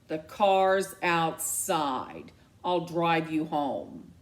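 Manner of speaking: slow, cold, clipped-in-fury command; ice-cold parental order; stern mother. Acted. Mom coldly ordering her daughter home.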